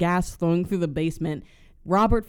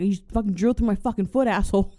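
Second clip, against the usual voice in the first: fast, a bit louder hammed-up outrage; mock angry complaint; 4 semitones higher, 4 dB louder, faster than usual. Robber with his foot drilled snapping at the plumber, mock angry. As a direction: rattle it off, stung and indignant.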